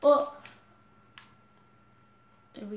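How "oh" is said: surprised. Real, not acted. Sudden game mishap.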